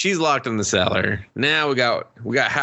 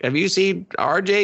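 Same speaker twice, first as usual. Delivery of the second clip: put-on high girly voice; 9 semitones higher than usual. Voicing the girl asking.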